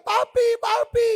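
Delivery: high slow frightened call; frightened child calling papi; child calling for daddy. Retold or imitated. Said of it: "Anaknya teriak".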